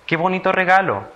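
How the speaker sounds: high-pitched admiring exclamation. Shown as a demonstration. Teacher has children guess the sign, exclaiming high and admiringly. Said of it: "Es una exclamación".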